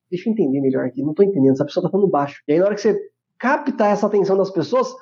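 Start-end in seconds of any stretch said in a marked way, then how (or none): 0.1-2.4 imitating a listener. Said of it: "elas falam assim".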